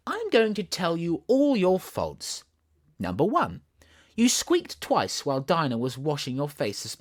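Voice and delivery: Alice mock scolding. Alice telling the kitten how angry she was, playful high mock scold.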